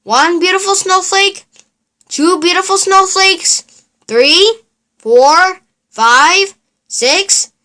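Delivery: the Count counting snowflakes, delighted. Acted. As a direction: count each snowflake with relish. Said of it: "the Count counted snowflakes".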